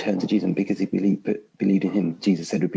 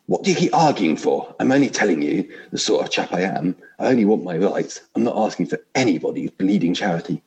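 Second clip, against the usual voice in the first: indignant big ghost; 2 semitones higher, 3 dB louder than usual. Acted. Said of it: "I'll try vaguely to put on different voices".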